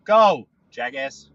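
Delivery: slow, drawn-out, loud jackass; impatient yell. Real, not acted. Driver yells at the slow car ahead. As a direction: bark it at the dawdling car.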